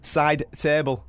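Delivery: slow repeat. Shown as a demonstration. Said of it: "To what?".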